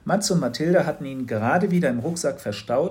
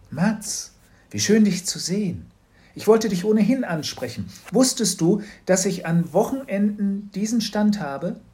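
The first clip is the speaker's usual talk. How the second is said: higher, louder friendly shopkeeper voice; Frau Kramer; 9 semitones higher, 6 dB louder than usual. A narrator's reading. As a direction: greet him sweetly from behind the stall. Frau Kramer greeting Mats.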